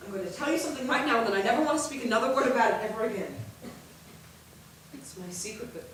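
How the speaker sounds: soft, low, intimate confession; hushed confession. Acted. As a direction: confide the secret quietly to her sisters. Sister confesses her secret love.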